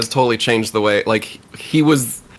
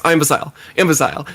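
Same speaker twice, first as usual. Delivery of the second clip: said fast; faster than usual. Shown as a demonstration. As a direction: run "I'm Basile" together into "Imbecile". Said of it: "if you say it fast enough".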